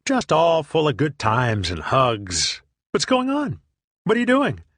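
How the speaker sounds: mock his oblivious cheer; clueless cheerful friend. Friend asks what he's doing, high oblivious mock cheer.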